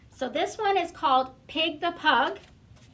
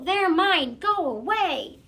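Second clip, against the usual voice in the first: grumbling possessive pug, higher and louder; 4 semitones higher, 4 dB louder than usual. Acted. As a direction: snap it out like a greedy pug guarding toys. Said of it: "Pig would just grumble".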